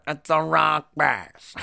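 slow, drawn-out imitation of that stranger's yell; mocking catchphrase. Teasing Doug on the boat with the stranger's line, slow and drawn out. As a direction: drag it out to tease Doug. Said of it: "the way they said it was fucking hilarious".

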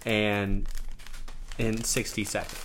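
slow and loud, spelling it out; slow emphatic explaining. Acted. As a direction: lay it out word by word like to a child. Over-explaining the simple challenge rules.

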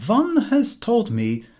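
awkward courtly sentence; phrase-book formality. A narrator's reading. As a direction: read it like a language book. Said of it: "It ran".

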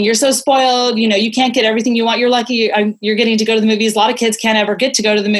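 fast, lecturing scold; quick mock scolding of a spoiled kid; scolding parent. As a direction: rattle off a guilt-trip to a child. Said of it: "you hear how easily it comes off my tongue".

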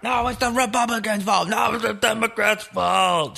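high squeaky falsetto blaming; mock partisan voice. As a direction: play a shrill cable news arguer.

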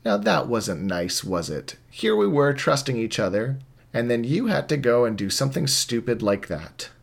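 menacing. Acted. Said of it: "Alon looks right at you and says".

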